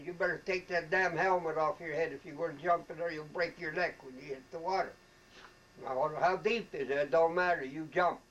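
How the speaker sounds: officer yelling at a recruit on the tower, loud; retold colonel yelling. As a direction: bark the order at the scared private. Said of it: "yelling at everybody".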